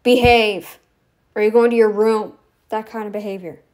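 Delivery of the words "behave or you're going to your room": loud, firm telling-off; mildly acted parental warning; mother scolding daughter. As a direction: lay down the law like a mother. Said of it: "mother to daughter, basically, telling you".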